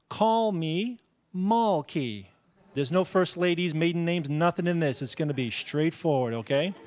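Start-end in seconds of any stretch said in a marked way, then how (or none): 0.1-2.3 very slow spoonerism demo; jumbled syllables. Shown as a demonstration. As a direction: spell out the swapped sounds. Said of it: "that would be a".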